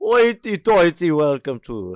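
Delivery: loud, high vampire voice. Asked for a British voice, the performer starts a welcome in a Dracula voice. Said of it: "You did like fucking Dracula".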